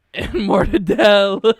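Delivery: big drawn-out Italian-American deli shout; Tony Soprano. Acted. Friend riffing on deli meats, mock mobster bellow. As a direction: bellow it like a mob boss, slowly. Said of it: "Just started like Tony Soprano".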